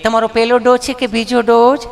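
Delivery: lightly voiced polite nurse; hint of a cooing nurse; sweet nurse voice. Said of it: "nurse બેને એવું પૂછ્યું".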